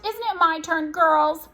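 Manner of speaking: high, pleading wail. A narrator's reading. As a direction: appeal to the girls plaintively. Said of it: "she wailed".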